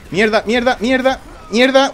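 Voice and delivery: rising frantic curses; panicked cursing. Real, not acted.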